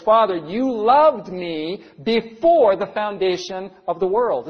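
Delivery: preacher voicing Jesus in prayer; praying as Jesus. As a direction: lift it as a heartfelt prayer to the Father. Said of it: "this is Jesus again praying to the Father".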